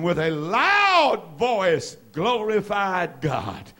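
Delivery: "loud" drawn out long and swelling; stretched emphasis on loud. Retold or imitated. Preacher retelling the healed man's praise, "loud" drawn out. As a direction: lean hard on "loud", stretching it like a cry. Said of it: "he started screaming".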